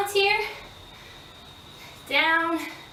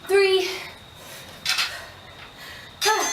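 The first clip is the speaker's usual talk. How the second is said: straining count; 8 semitones higher than usual. Real, not acted. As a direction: push the number out with effort. Counting out a hard rep.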